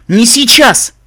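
loud, high burst of dread; panicked plea. Acted. Narrator terrified of the reaper, panicked. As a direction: cry it out in alarm.

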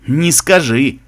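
a mild scoff; snorting disagreement. Acted. Guard disagreeing with his comrade, mildly snorting. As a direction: push back with a light snort. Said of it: "фыркнул его товарищ".

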